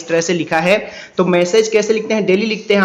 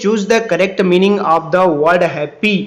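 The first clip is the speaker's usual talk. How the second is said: slow read-aloud; much slower than usual. Shown as a demonstration. Reads question.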